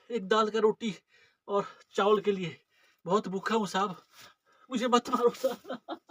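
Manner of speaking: frightened beggar begging for mercy; pleading beggar. Acted. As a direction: plead pitifully with the sahib not to beat you. Acted beggar begging not to be beaten. (गिड़गिड़ाता हुआ बेबस भिखारी)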